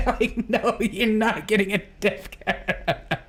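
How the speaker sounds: high-pitched words breaking into laughs; real helpless laughter. Real, not acted. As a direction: squeal it through giggles. Cracking up at own joke.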